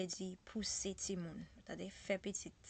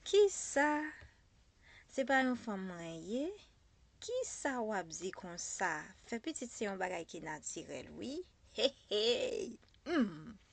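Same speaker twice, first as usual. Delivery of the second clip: indignant disbelief; 7 dB louder than usual. Acted. Character answering talk of giving birth, loudly indignant. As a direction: act out an affronted comeback with emphatic hums. Acts out the whole indignant reply.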